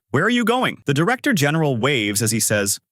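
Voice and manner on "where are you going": nervous. Acted. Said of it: "I became nervous".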